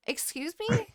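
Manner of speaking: high-pitched startled double take; taken aback and demanding an explanation; incredulous. Retold or imitated. Grandchild to grandma calling from the ambulance, incredulous. Acted shocked reply to grandma.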